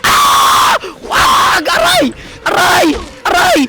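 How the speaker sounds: loud, high shrieks; scream, then yelp with each blow; panicked screaming. Real, not acted. Player getting hit by the enemy, screaming in panic. Character being hit while fleeing.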